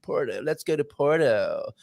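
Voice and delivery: slow American "Puerto"; American accent. Shown as a demonstration. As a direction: stretch out "Puerto" American style. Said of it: "doing my Puerto".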